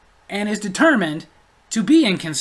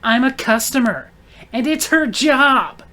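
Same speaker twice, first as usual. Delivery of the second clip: higher, slow, haughty mock; entitled retort; 4 semitones higher, 4 dB louder, slower than usual. Customer justifies herself to the man, haughty mock. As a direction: drawl it like she is owed service.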